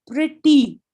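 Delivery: "प्रिटी" with the closing ई sound pushed out; final vowel emphasised. Shown as a demonstration. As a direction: let the ई ending of "प्रिटी" ring. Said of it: "ई का sound एंड पे आता है".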